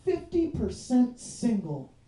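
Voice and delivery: slow, deadpan reading of "Fifty percent single"; reading the shirt. Shown as a demonstration. Comic reading a student's shirt aloud, slow deadpan. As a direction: spell out the slogan slowly, flat. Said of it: "Her shirt said".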